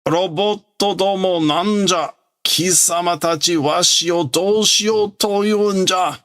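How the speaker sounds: hammed-up panicked villain; flustered old villain. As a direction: panic at the robots closing in. Flustered villain confronts robots.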